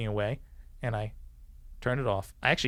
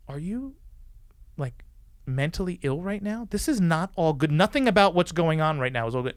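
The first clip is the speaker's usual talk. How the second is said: rising indignant yell, higher and louder; angry yell; 6 semitones higher, 5 dB louder than usual. Retold or imitated. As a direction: tell him off, getting louder. Yelling at drunk sergeant.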